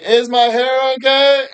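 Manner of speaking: put-on very high, whiny girly voice; vain teen girl. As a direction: ask it like a needy teenage girl.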